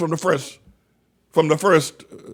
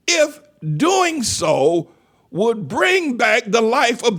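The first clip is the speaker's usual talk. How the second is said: emphatic question; 2 semitones higher, slower than usual. Real, not acted. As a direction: stretch out each word of the challenge. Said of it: "we can do it emphatically".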